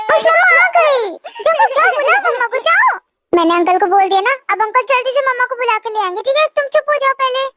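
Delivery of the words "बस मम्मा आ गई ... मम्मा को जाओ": laughing coax. Acted. Coaxing child with fake news.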